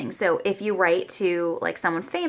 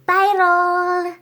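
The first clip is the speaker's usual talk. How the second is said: high, loud repeat of viral; excited; 9 semitones higher, 5 dB louder than usual. Real, not acted. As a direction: savour the word with glee.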